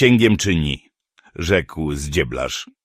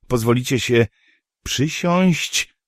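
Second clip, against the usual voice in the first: sorceress voice; 7 semitones higher, slower than usual. A narrator's reading. Yennefer voiced in story.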